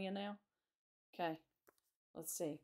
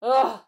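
loud, higher-pitched "ugh"; cold shudder "ugh"; 5 semitones higher, 17 dB louder than usual. A narrator's reading. Susan stamps her feet in the cold, groaning. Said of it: "stamping her feet".

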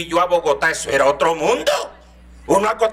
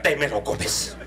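stern mother; 4 semitones lower, 5 dB quieter, slower than usual. Retold or imitated. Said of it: "mi mamá que decía".

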